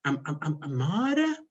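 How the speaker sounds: mock officer stammering over a foreign name; imitating an officer mangling the surname; stumbling officer. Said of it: "officer reading surname".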